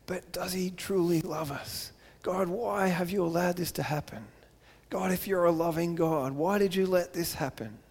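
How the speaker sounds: soft, hurt pleading under the breath; pleading question to God. Retold or imitated. People quietly pleading with God why he allowed this. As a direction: ask God softly, wounded.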